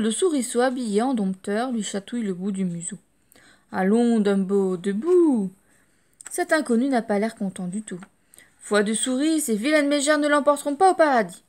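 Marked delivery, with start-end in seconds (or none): 3.7-11.4 mouse voice. Acted.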